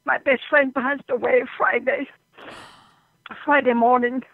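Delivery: tearful, halting grief; real grief, pausing to keep composure; holding back tears. Real, not acted. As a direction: struggle to get the news out without crying. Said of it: "try not to cry".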